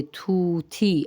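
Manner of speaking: طوطی with a puff of h after each t, "thoo-thee"; Persian aspirated t. Shown as a demonstration. Teacher explains the h sound to Urdu speakers, aspirated pronunciation. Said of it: "طا کے ساتھ ہا کی آواز آتی ہے".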